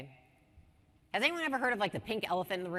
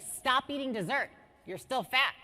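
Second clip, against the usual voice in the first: mildly raised, blunt telling-off; lightly hammed-up blunt order; mock scolding; 5 semitones higher, 4 dB louder than usual. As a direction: act out tactless criticism, a bit louder. Mock example of bad feedback.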